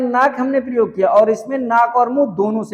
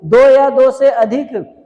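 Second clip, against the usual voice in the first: louder and slower, hammering "दो या दो से अधिक"; slow emphatic definition; 3 semitones higher, 5 dB louder, slower than usual. Shown as a demonstration. Teacher drilling the definition into students, slow and loud. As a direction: lean on each word of "दो या दो से अधिक". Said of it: "परिभाषा देखो".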